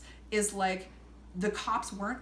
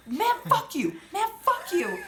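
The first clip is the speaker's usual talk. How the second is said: high, louder mock shout broken by laughter; laughing mock shout; mock yell; 14 semitones higher, 5 dB louder than usual. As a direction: yell it back while cracking up. Jorge shouting back, laughing.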